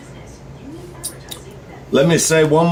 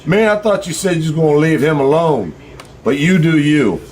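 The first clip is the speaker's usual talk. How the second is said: quoting Thunder; 4 semitones higher than usual. Retold or imitated. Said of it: "He's like".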